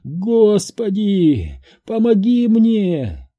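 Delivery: high, slow anguished scream; screaming prayer. A narrator's reading. Florence screaming to God, high anguished. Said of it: "закричала".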